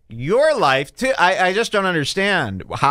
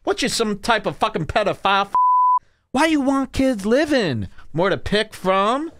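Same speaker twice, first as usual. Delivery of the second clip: attack like a furious debater; mock angry rant; 7 semitones higher than usual.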